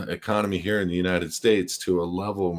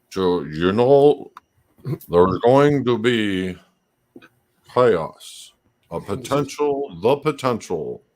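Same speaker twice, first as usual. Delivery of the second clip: put-on old miser voice, higher and louder; 4 semitones higher, 6 dB louder than usual. Imitating Klaus Schwab for the other speaker: Klaus Schwab impression. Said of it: "That's a good Klaus Schwab".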